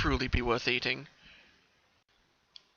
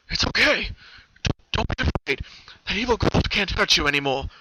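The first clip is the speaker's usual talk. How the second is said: reassuring rescuer; 6 semitones higher, 6 dB louder than usual. Acted. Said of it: "The voice ... was comforting, reassuring".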